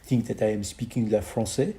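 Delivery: putting on a French accent. Shown as a demonstration. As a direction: speak English with a hammed-up French accent. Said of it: "have the ability to talk in a different accent".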